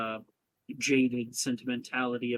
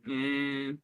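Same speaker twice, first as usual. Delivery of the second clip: slow, drawn-out feigned doubt; smug; 4 dB quieter, much slower than usual. Acted. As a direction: drag it out, smugly noncommittal. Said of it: "sits there with a smug look".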